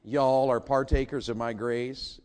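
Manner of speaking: y'all drawn out slow at the front; mock-solemn y'all reading; slow Southern y'all. Shown as a demonstration. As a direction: lean on y'all, slow and deliberate. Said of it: "the Greek pronunciation".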